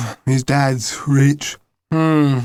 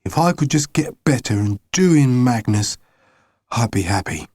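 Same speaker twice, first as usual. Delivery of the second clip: growling; 3 semitones lower than usual. Acted. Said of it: "he growled".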